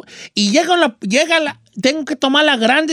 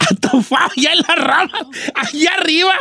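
mock crying; 6 semitones higher than usual. Stuck in tree, mock crying.

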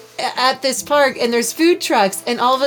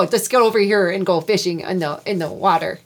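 put-on American Midwest accent. Midwestern guide invites Conway to go fishing, Midwest accent. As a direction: play up rounded Midwestern vowels. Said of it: "I can only do Midwest".

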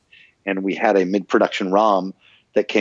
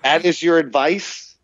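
mildly mocking disbelief, pitched up at first; incredulous protest; 4 semitones higher than usual. Actor reacting to the engineer's useless advice, incredulous. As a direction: retell it as a baffled objection. Scoffing at engineer's retold direction.

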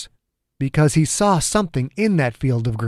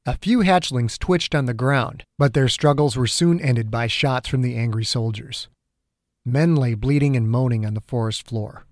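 plain reading voice

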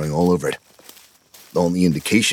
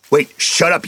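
higher, snapping command to stop; sharp bark; 11 semitones higher, 4 dB louder than usual. A narrator's reading. Hogan silencing the singing scouts, sharp command. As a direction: cut the boys off.

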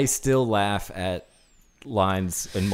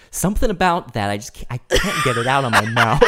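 laughing quote; 3 dB louder than usual. Retold or imitated. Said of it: "He goes".

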